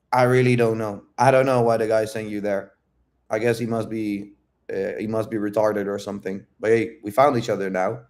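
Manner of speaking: grounded, even-pitched answer; non-defensive, calm. Retold or imitated. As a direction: own up without any defensiveness. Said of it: "non-defensiveness in my voice".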